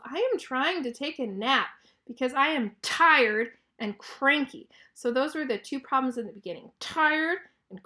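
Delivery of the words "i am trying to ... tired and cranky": mild storybook yell, stressing the key words; cranky yell. Acted. Elephant to Piggy who woke him from his nap, mildly cranky yell. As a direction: complain crossly, only half yelling. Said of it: "He yells".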